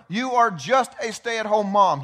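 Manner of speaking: slow and loud, JUST leaned on with scorn; dismissive slow taunt, hitting each word; belittling put-down. Retold or imitated. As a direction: spit out "just a stay-at-home mom" as if it were nothing. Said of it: "the number one thing the enemy wants you to think".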